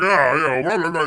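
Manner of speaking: mild mock yell of kitchen gibberish; a light hint of an angry cook shouting from the back. Cook yelling in background at diners, mock yell. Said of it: "the manager and the cook were yelling".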